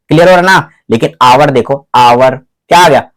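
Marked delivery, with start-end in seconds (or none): 1.9-2.4 आवर starting on an open vowel; silent H. Shown as a demonstration. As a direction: begin आवर from inside, no H. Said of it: "यहां से sound उत्पन्न हो रहा है अंदर से".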